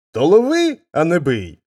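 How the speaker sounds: high, loud pained yell; shouting in pain. Acted. Father hit again, yelling at his son in pain. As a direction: cry out as the blow lands. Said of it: "з боллю кричить батько".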